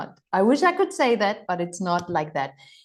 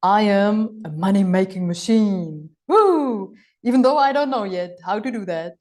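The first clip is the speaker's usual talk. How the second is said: mock affirmation; 3 dB louder than usual. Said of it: "into the energy of".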